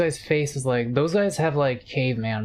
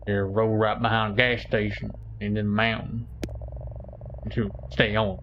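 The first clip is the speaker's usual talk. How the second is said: lower, gruff shopkeeper warning; lightly lowered game-clerk voice; evolving the voice; 3 semitones lower than usual. Acted. Streamer voicing the gas station clerk, lower and gruff. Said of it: "I'm evolving the voice".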